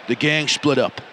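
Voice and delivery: lightly acted New York mobster accent; put-on New York accent. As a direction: mafia boss reporting in a mock New York accent. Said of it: "I've got to do an accent".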